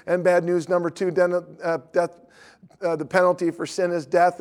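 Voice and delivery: candy seller reading the tract to the preacher, fast and eager. Retold or imitated. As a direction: race through it like he's witnessing back. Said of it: "he's reading it faster".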